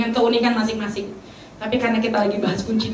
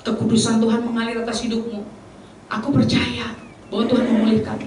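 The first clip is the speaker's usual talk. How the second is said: gentle prophecy; 2 semitones lower, 3 dB quieter than usual. Shown as a demonstration. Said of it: "Saya pasti dibalikin".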